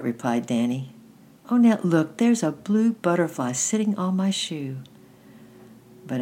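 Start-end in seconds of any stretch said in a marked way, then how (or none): 1.5-4.8 high-pitched delighted exclamation; excited child. A narrator's reading. Danny shows Annette a butterfly, excitedly. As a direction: call your sister to look, eagerly. Little boy spots a butterfly.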